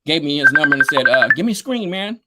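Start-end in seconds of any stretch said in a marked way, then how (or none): 1.3-2.2 imitating Roger. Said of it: "That's how he talked".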